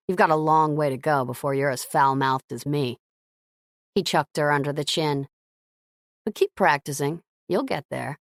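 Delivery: low, teasing man's voice. Acted. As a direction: tease her like a cowboy. Gavin teasing Scarlett.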